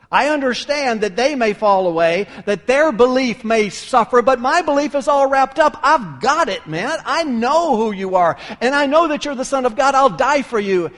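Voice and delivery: loud, insistent pledge building in pitch; Peter's emphatic vow. Acted. Peter swears to Jesus he would die, loud and insistent. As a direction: push it out forcefully, as if swearing loyalty. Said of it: "You remember what Peter said?".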